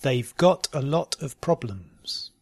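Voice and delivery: "They've got a lot of problems" slowly, spaced out. Shown as a demonstration. Teacher giving learners a sentence to try, slowly. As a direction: take your time over "They've got a lot of problems". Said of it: "first slowly and then".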